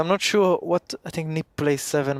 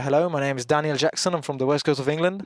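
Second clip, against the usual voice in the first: put-on English accent. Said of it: "Can you give me your English accent?".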